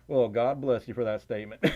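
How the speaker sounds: polite Southern twang; Southern accent. Acted. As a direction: answer in a put-on Southern accent. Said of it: "If I start talking like that".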